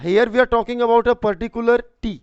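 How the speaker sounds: slow, deliberate English explanation; slow dictation. Shown as a demonstration. Teacher slowly explaining the particular tea to students. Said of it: "teacher dictating explanation".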